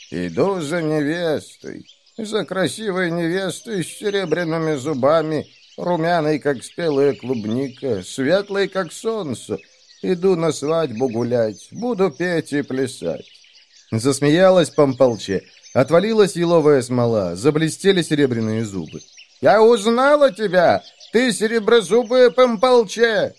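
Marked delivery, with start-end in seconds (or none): 0.1-13.2 put-on old woman whispering. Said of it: "прошамкала глухим голосом". 19.4-23.3 high, loud triumphant witch cry; witch shouting. Acted. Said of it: "закричала старуха".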